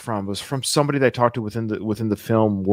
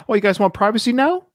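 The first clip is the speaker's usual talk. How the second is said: higher, sarcastic Paulie quote; 11 semitones higher than usual. Retold or imitated. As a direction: toss it off with sarcasm. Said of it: "he says it sort of sarcastically".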